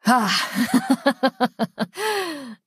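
breath out into a long chuckle; exhale, then chuckle wickedly; villain's laugh. Acted.

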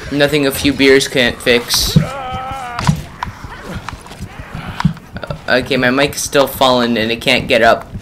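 distant, muffled fallen mic; talking into a dropped mic. Real, not acted. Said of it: "and there goes my mic".

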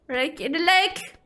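secret unvoiced whisper of the plan. Shown as a demonstration. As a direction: whisper it like a sneaky plot. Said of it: "whispered retake".

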